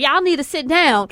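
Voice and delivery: lightly imitated country accent, drawn from the speaker's own voice. Principal telling restless graduation crowd to sit, mildly imitated country accent. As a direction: put on a slight country accent. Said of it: "she has a country accent".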